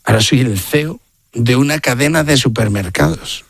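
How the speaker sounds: retold dignified CEO. Old friend now a dignified CEO.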